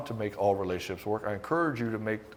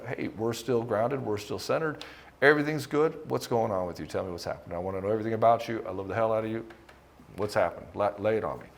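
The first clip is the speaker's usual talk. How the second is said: calm grounded reassurance. Retold or imitated. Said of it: "you still hold the tone of".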